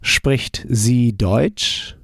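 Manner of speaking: very slow, clear "Spricht sie Deutsch?"; learner-paced question; slow model answer. Shown as a demonstration. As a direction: draw it out for repetition. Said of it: "How would you say".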